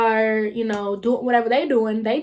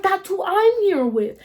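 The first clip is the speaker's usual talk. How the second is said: high, slow, stunned; retelling the moment it clicked; surprised realisation; 9 semitones higher, 3 dB louder, slower than usual. Retold or imitated. Telling friends how she realised, high and slow.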